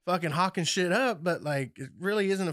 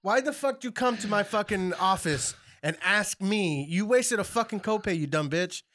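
worked up; 3 semitones higher than usual. Real, not acted. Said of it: "I'm getting worked up now".

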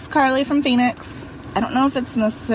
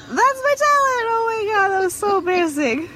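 embarrassed excitement; 12 semitones higher than usual. Real, not acted. Embarrassed after her elk noise.

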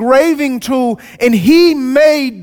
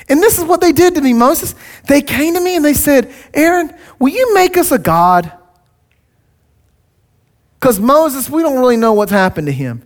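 Aaron excuse voice; 3 semitones higher than usual. Retold or imitated. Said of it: "Aaron was like".

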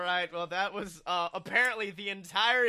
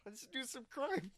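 a hint of a squeaky puppet frog; Kermit the Frog voice; 2 semitones higher than usual. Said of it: "I want to play him as Kermit the Frog".

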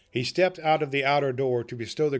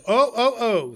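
jolly Santa call; 11 semitones higher, 7 dB louder than usual. Pretend. Joke repeated.

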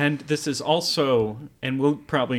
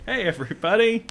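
host greeting; 10 semitones higher, 4 dB louder, faster than usual. Acted. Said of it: "Hold for applause".

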